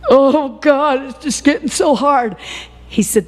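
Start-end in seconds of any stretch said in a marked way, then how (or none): 0.1-1.0 voice breaking. Real, not acted. Emotional cry in sermon. 1.0-2.3 voice breaking. Real, not acted. Preacher breaking down mid-sermon.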